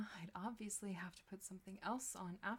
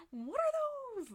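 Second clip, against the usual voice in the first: meme shout; 10 dB louder than usual. Pretend. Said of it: "My brain has been poisoned by the internet".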